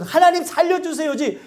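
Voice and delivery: mild mock complaint; mock indignant prayer. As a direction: imitate someone scolding God. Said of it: "그러면서 막 화를 내는 사람들".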